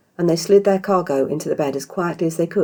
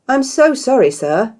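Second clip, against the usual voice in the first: higher, louder, eager-to-please hostess; polite innkeeper; 9 semitones higher, 7 dB louder, slower than usual. Acted. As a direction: apologize brightly to a guest. Innkeeper Isha's voice.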